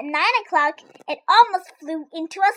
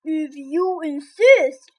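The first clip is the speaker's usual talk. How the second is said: stag beetle; 6 dB louder, much slower than usual. A narrator's reading.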